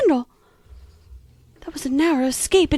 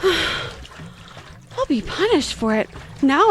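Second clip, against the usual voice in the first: slow sigh of mild self-pity; slow, rueful sigh; sighing regret; much slower than usual. Acted. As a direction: sigh it out, sorry for yourself. Sighs over her tears.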